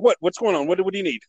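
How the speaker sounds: imitating a harried manager's quick questions; imitated urgency. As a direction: fire off questions, mildly urgent. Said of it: "he's just urgent".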